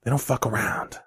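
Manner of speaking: low, hushed and deadly serious; hell of serious Walken. Retold or imitated. Previewing the serious Walken clip, low and hushed. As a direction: drop it down, grave and quiet. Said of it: "when he gets hell of serious".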